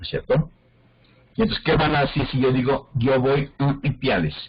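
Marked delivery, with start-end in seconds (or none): 2.9-4.3 "a" pushed through the nose, slightly raised; nasalized A. Shown as a demonstration. Teacher asking students how they would judge it, with "a" nasalized. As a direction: say "a" nasally, as if stuffed up. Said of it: "Que yo soy un gangoso".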